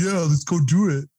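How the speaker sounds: mildly hyped retold agreement; eager agreement. Jeffrey agrees to mess with them, eager. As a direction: play a friend keenly jumping in.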